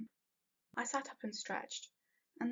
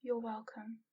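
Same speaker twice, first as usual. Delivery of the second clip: cooing. Acted. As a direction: coo it gently. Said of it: "he cooed".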